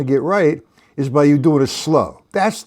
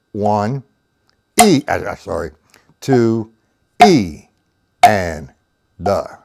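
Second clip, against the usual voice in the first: counting aloud in time; 7 semitones lower, slower than usual. Shown as a demonstration. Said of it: "You see that, Paul?".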